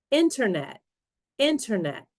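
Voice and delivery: INternet, stress on the first syllable; careful model reading of "Internet", falling away after IN; "internet" repeated alike, first syllable strongest; word stress demo. Shown as a demonstration. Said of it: "stress on the right syllable".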